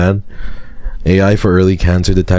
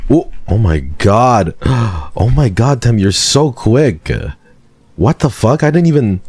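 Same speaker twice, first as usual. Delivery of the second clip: surprised; 5 semitones higher than usual. Real, not acted. Shocked at fast voter.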